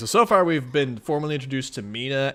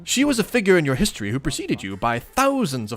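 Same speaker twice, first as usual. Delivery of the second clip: upbeat nerdy character; 5 semitones higher, 3 dB louder than usual. Acted. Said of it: "a little more upbeat".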